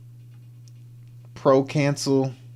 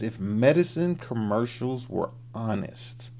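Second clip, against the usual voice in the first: whisper; 5 dB quieter, slower than usual. Acted. Reading the video title in a whisper.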